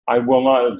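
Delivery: "not" pressed down firmly; emphatic. Shown as a demonstration. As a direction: stamp the word not. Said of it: "That emphatic".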